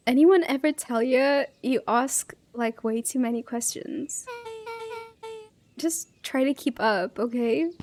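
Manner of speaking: lightly done Valley Girl attempt; a touch of Valley Girl accent in a teasing brush-off. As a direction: give it a hint of Valley Girl. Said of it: "trying to do this Valley Girl accent for her".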